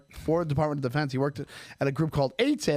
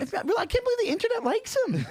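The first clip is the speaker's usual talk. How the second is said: laughing. Real, not acted. Laughing disbelief.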